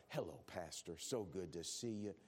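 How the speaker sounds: fake-nice greeting at the church door; a syrupy Sunday smile in the voice; mock sweet churchgoer.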